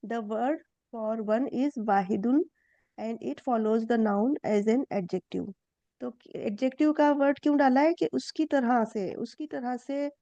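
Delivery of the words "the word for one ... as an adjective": slow, careful read of the textbook; a teacher reading the English lesson slowly to students; reading the textbook aloud. Shown as a demonstration. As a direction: read it out slowly for the class, word by word. Rereads the textbook line.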